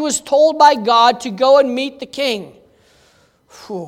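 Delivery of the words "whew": long whew of dread; acted uneasy sigh; daunted exhale. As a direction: blow out a reluctant breath. Reluctant Elijah facing the king.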